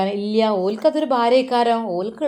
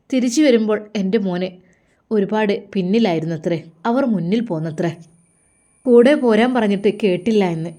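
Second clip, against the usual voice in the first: urgent confronting mother; 4 dB louder than usual. Acted. Mother suspects, confronts son.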